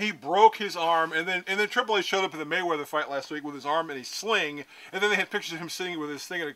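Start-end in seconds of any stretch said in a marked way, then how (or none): 0.0-1.1 broke leaned on slowly and loudly; stress on broke. Real, not acted. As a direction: punch BROKE, stretching it out. Insists over co-host's echo.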